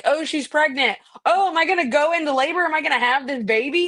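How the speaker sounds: high, rushed mock fretting; imitated video actress. Friend mocking adults in YouTube kids' video, high and fretful. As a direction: mimic a kids' show adult in a high flutter. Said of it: "talking about, like".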